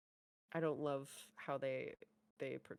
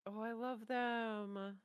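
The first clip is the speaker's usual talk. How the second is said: slow, higher-pitched fond coo; gushing adoration; 5 semitones higher, much slower than usual. Real, not acted. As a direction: gush over them, stretching it out. Gushing over two favourite characters.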